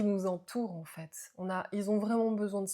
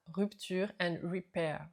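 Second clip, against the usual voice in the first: French-accented English; slower than usual. Real, not acted. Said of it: "Désolée pour mon accent anglais".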